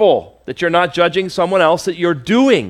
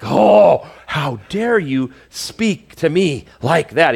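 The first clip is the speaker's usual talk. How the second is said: mock ticked off; slower than usual. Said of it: "He's clearly ticked".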